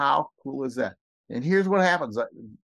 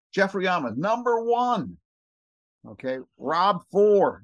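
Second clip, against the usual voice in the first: excited; 5 semitones higher, slower than usual. Real, not acted. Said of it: "This is why I get so excited".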